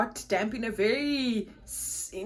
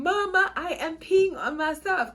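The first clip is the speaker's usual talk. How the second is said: alarmed; 7 semitones higher than usual. Retold or imitated. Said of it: "So I'm saying".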